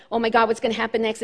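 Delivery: fast, rattled-off worry; quick mock self-pity; pity-party fretting. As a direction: rattle it off like a mild panic. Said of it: "go into this pity party".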